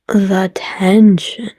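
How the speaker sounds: slow hushed whisper of suspense; breathy whisper. Real, not acted. Vlogger savoring the movie's romantic tension, slow whisper. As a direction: whisper it slowly as if the tension is unbearable. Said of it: "commenting on romantic tension".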